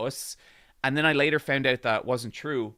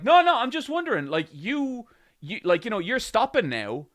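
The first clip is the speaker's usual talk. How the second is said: higher, louder, fast mock stranger; hurried stranger; 8 semitones higher, 7 dB louder than usual. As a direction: rush it like a defensive stranger.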